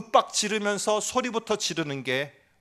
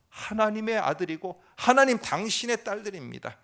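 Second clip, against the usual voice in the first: crying out; 3 semitones higher than usual. Acted. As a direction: cry out to God without shame. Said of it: "이렇게 외쳐야 됩니다". (당당하게 외치는 기도)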